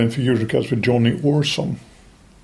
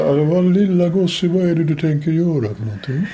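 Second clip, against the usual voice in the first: condescending TV veteran; 3 semitones higher than usual. Retold or imitated. TV host voiced, condescending to him.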